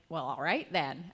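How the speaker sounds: put-on a light, slowed-down American accent; mild American accent. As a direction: try an American accent, understated. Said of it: "my best attempt at an American accent".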